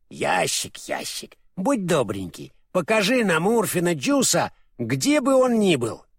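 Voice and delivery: coaxing chant that rises line by line; magic incantation. Acted. Страшила asks the magic box for Урфин, coaxingly.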